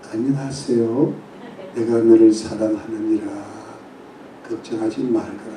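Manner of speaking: put-on soft gentle voice. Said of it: "예수님 목소리가 굉장히 부드러운 줄 알았어요".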